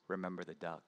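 low, soft warning hiss; under her breath. A narrator's reading. Sister warns little Johnny under her breath, soft menace. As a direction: threaten him quietly under your breath. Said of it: "under her breath says".

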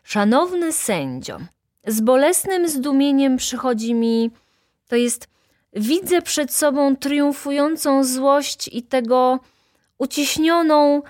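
high, halting courtroom oration; pompous speech. A narrator's reading. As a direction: orate grandly, then lose the thread. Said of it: "pora wypowiedzieć moją mowę". (napuszona, rwąca się mowa)

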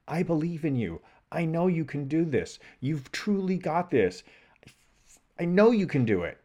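positive self-talk. Retold or imitated. Truly positive part of self talking to him, encouraging. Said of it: "a truly positive part of self that's like".

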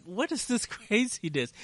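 high-pitched, laughing mock bewilderment; amused disbelief. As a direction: act out baffled amusement, voice jumping up high. Retelling his reaction to friend's tinkering.

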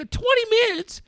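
high, loud mock outrage at the son; mock furious dad. Dad ranting at his ten-year-old about shower length, in high mock outrage. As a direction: rant in exaggerated disbelief, voice cracking up. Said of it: "I go".

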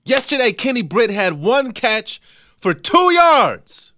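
slow, drawn-out and high; dramatic slow delivery. Real, not acted. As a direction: drag it out like a verdict. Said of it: "I promise I'm not doing that on purpose".

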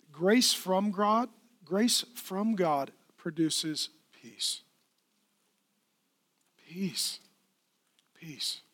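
slow, deliberate emphasis. Acted. Preacher stressing grace.

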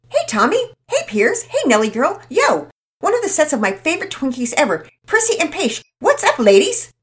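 high and loud, bursting with energy; exuberant. Acted. Todd bursting in and greeting all his friends, exuberant. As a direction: greet everyone like a party host. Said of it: "in his usual unrestrained fashion".

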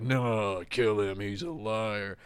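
a lightly voiced, insistent Johnny telling you to kill; imitating Johnny. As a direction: nudge your partner, half in character: kill him. Johnny urges killing the guy.

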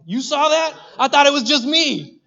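a hammed-up spooked disciple; freaked out. Disciple to friends on seeing the ghost, panicky.

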